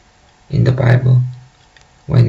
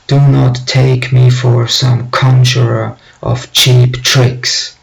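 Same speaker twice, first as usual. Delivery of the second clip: mildly booming, emphatic wizard rebuke; magnified wizard voice. Retold or imitated. Gandalf rebuking Bilbo as he grows taller, mildly magnified voice. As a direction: imitate a commanding wizard without full volume. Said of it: "his voice becomes very loud".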